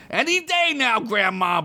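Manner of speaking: high, sarcastic orc; gruff orc taunt; impatient orc. Acted.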